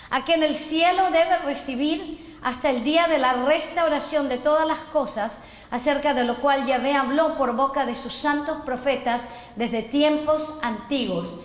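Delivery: measured reading of scripture from the pulpit. Acted. Preacher reading Acts to the congregation, measured. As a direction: read the verse out with weight.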